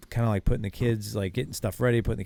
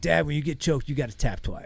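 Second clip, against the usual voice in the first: put-on higher, louder eager kid voice; a proud little boy explaining the rules; imitating his son; 7 semitones higher, 3 dB louder than usual. Dad quotes his son instructing him.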